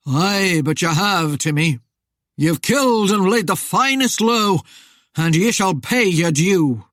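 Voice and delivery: loud, projected voice of vengeance; accusing spectre. A narrator's reading. Rider accuses Timmy of killing, menacing. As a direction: pronounce judgment like Death, menacing. Death's voice in narrated story.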